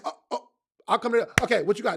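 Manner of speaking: quick, jumpy back-and-forth; talking fast. Acted. Fielding the next person's question on the move, talking fast. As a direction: hop briskly to the next questioner. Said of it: "I'm gonna talk fast to them".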